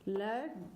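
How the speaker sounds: लड्डू with doubled ड clearly held; लड्डू said as ləɖɖu with held ड; demo pronunciation. Shown as a demonstration. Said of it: "जैसे हमने बोला लड्डू".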